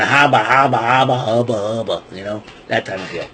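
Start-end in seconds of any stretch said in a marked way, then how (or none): 0.0-2.0 starstruck babble. Retold or imitated. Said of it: "I'm going".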